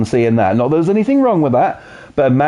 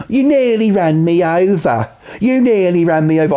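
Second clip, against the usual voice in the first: mock whiny father; 4 semitones higher than usual. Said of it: "That's what he sounds like".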